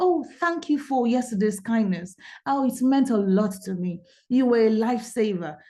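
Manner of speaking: ordinary talk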